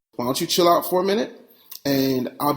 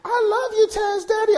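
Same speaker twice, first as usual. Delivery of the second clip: very high mock teen-girl voice; teenage girls imitated. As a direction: squeak it like an adoring teenage fan. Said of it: "friends started to say".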